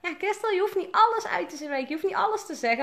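ex-girlfriend lecturing Christel, in a high mock voice; imitating ex-girlfriend. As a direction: mimic her scolding, pitched well up. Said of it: "Die zei altijd".

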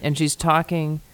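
talking through fabric; muffled through shirt. Real, not acted. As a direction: speak with a shirt over your mouth. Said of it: "hidden herself in her shirt".

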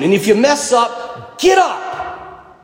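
rally them, voice climbing to a shout; rising shout. Real, not acted. Priest urging his congregation not to quit, rising shout.

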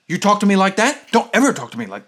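mock aggro guy. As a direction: play the aggro guy, a bit heated. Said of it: "he gets super aggro".

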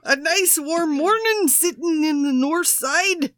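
hammed-up English accent hello; mock English accent; put-on English accent. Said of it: "Tell me that's your English accent".

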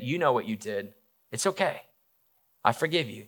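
soft, tender reassurance; quiet forgiveness. Retold or imitated. Jesus to Peter who denied him, quietly forgiving. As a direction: let the forgiveness land gently, softly.

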